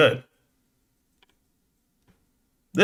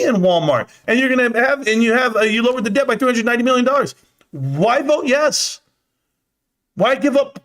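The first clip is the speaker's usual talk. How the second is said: demanding answers, voice pitched up; outraged rant; 6 semitones higher than usual. Real, not acted. Streamer ranting at viewers about the vote, outraged.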